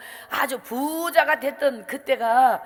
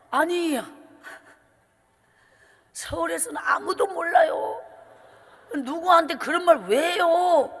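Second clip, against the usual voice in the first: shouting back; 4 semitones higher than usual. Retold or imitated. Daughter shouts back at mother.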